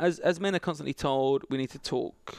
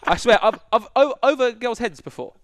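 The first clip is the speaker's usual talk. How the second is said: laughing through the words, louder; 6 semitones higher, 9 dB louder than usual. Real, not acted. Bragging to his co-host, laughing. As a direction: boast while cracking up.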